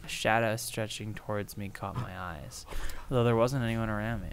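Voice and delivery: soft, measured horror reading; hushed, even read-aloud; story narration. Acted. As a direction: read the eerie tale quietly. Reads horror webcomic aloud.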